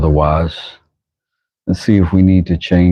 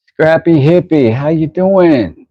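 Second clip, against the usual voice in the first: much higher, drawn-out greeting; high-pitched hail; 10 semitones higher, slower than usual. Real, not acted. Streamer greeting a chat regular, high drawn-out hail. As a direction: hail them high, stretching "how you doing".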